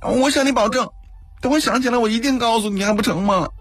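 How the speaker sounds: high-pitched, panicky protest; frightened princess pleading to be believed; terrified self-defence. A narrator's reading. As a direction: argue desperately in a very high voice. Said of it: "眼神惊恐的极力辩解".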